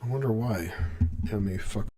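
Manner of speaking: metallic robot-sounding mic; robotic voice filter. Real, not acted. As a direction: voice through a glitchy robotic mic. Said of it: "My mic sounds robotic".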